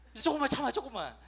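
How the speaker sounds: 살짝 높여 힘주어 다독이는 부모 흉내; 조금만 버티라고 달래듯; 어르고 달래듯. Retold or imitated. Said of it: "어르고 달래는 말". (자녀를 힘주어 어르고 달래는 부모 목소리)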